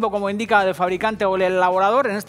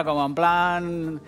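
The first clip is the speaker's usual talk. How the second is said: mock posh drawl; much slower than usual. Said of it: "como haciéndoos los finos".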